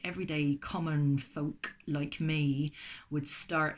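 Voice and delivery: put-on slow, light West Country accent slipping in; a hint of West Country, said slowly. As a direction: drift into a mild West Country burr. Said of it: "I don't know why I'm doing a West Country accent".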